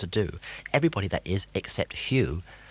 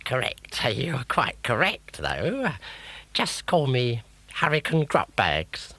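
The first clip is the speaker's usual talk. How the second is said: witch voice; 4 semitones higher, slower than usual. Acted. Grotbags voice.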